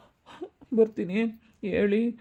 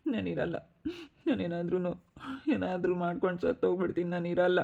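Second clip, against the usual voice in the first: tearful despair. Acted. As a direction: say it like a man giving up on life. Despairing husband threatens to die. (ಅಳುತ್ತಾ ಹತಾಶೆಯ ದನಿ)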